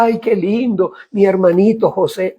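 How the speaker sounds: sarcastically sweet brothers; lightly mocking gushy voice; mock sweet joy.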